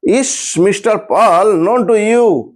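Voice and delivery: the sentence drawn out slowly for writing; slow dictation. Shown as a demonstration. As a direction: read it out slowly so they can copy. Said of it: "করে ফেলো". (ধীরে ধীরে বলে লেখানো)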